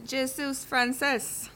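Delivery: put-on slow, careful French in a thick English accent; trying to pass as French, English accent showing through. Passepartout insists to the Frenchman he is French, English accent. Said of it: "Your accent sounds too English".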